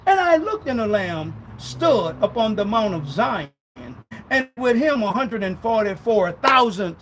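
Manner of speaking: slow, emphatic scripture reading. Real, not acted. Preacher proving who the virgins are, slow reading. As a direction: proclaim the verse slowly and firmly. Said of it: "I'll read it slow".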